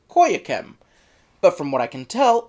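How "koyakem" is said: Koyakem, ending in -kem; audio's pronunciation. Shown as a demonstration. Reviewer quotes how the audio says it, ending -kem. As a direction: say Koyakem with a final -em. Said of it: "the audio pronounces it".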